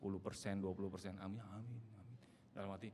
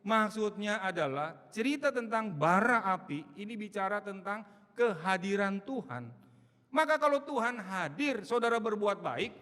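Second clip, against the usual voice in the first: much louder, higher fiery preaching; preaching at full force; 9 semitones higher, 9 dB louder than usual. Acted. Preacher urging the church, loud and fiery. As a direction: drive the point home to the congregation.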